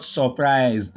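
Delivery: "surprise" wrongly as saw-prise; mispronounced first vowel. Shown as a demonstration. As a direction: give "surprise" a full O sound in the first syllable. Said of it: "not surprise".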